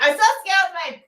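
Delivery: rushed, high, loud mock voice; imitating a loud woman. Retelling the loud woman in front row, fast high imitation. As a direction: fire it off like she blurted it. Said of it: "she was super loud".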